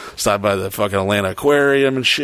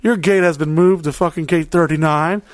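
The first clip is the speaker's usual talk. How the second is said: mock airline announcer, raised pitch; gate announcement; 6 semitones higher than usual. Gate agent telling passengers about a moved gate, mock announcer voice. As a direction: imitate a bumbling gate agent on the speaker. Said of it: "I heard on the".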